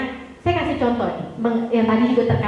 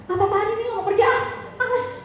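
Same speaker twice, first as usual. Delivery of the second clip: lazy whining dad; 8 semitones higher than usual. Pretend. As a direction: sulk like a dad who won't work. Lazy father, hypothetical quote.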